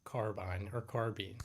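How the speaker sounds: "carbine" said two ways, rhyming with mine, then with bean; both pronunciations. Shown as a demonstration. Streamer asks chat how to pronounce it, both pronunciations. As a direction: slowly offer "carbine" as car-bine, then car-been. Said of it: "how do you guys pronounce".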